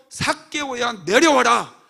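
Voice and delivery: Jesus calling loudly up into the tree; loud summoning call. Acted. Jesus calls Zacchaeus down tree.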